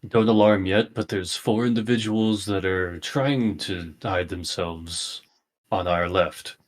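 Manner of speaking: understated, casual warning over the shoulder; nonchalant. Acted. Player quietly tipping off the party about hidden figures, nonchalant. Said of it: "I just kinda nonchalantly over my shoulder say".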